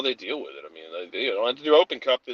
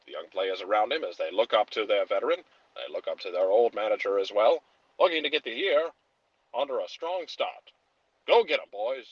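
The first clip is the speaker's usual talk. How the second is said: put-on old-timey radio voice; 2 semitones lower than usual. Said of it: "forty newsreel".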